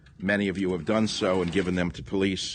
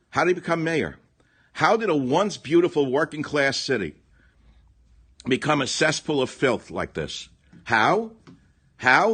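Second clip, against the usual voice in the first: 1 outraged shouting; 6 semitones higher, 5 dB louder than usual. Real, not acted. Ranting rhetorical outrage.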